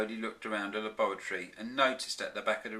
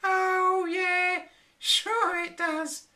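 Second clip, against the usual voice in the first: high, slow sarcastic drawl; laughing dismissal; 6 dB louder, much slower than usual. A narrator's reading. Flora scoffing at the professor's warning, sarcastic laughing tone. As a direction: brush him off, amused and sarcastic. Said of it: "she laughed".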